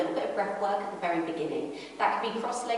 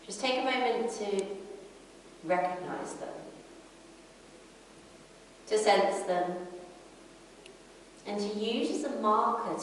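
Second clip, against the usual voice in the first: calm yoga teacher, unhurried with long pauses; guided breathing meditation. Acted. Yoga teacher guiding a class inward to the breath, calm meditation voice. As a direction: lead them gently through the breath, pausing between phrases.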